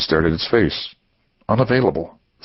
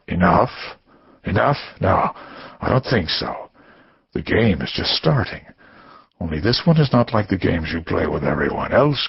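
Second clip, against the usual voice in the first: sinister caller; 2 semitones lower than usual. Acted.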